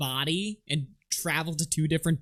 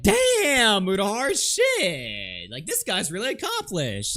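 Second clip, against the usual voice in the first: mock awe; 5 semitones higher, slower than usual. Mocking fans praising Mudahar.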